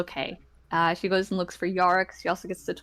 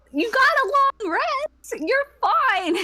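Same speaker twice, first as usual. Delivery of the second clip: dismissive brush-off; 4 dB louder than usual. Acted. Idy brushing off Malik.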